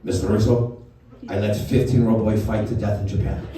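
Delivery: put-on caricatured Japanese accent; Mister Miyagi. Sensei breaks news to Daniel's mom, in a put-on Japanese accent. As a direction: confess it in broken English with a Japanese accent. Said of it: "I'm gonna do an offensive Japanese accent".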